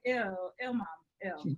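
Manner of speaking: low, understated "ew"; imitated disgusted kids. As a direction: mimic your kids cringing at you. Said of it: "it's literally like".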